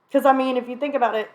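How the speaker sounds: talking with a mouth full; words round a bite of meatloaf. Real, not acted. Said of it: "This is my mother's meatloaf".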